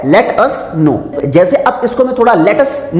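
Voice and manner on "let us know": "let us know" drawn out slowly; slow model reading. Shown as a demonstration. Teacher reads the phrase slowly. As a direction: read it out slowly. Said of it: "क्या लिखा है".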